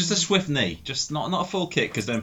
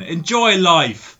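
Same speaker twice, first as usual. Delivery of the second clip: drawn-out and louder; slow and emphatic; 5 semitones higher, 6 dB louder, much slower than usual. Acted. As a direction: stretch it out slowly. Drawn-out punchline.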